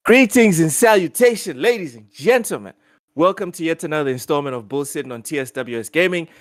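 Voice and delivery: upbeat announcer read, stretching the special guest build-up; hyped-up show intro; podcast host intro. Acted. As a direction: open the show like an eager host.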